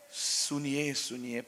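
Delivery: a husband murmuring his sulking wife's name, very soft; soft pleading call. Acted. King softly calls his upset queen's name, hushed. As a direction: drop very low and soft on the name.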